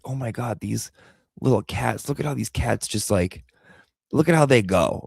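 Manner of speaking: soft, hushed cooing at the cats; cooing over kittens. Retold or imitated. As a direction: coo gently like over babies. Gushing over new kittens.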